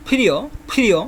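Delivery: ফিরিও with a heavy, breath-puffed first sound; thick pronunciation. Shown as a demonstration. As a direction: say ফিরিও with a thick, aspirated "ph" at the start. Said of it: "উচ্চারণটা একটু মোটা করে হবে".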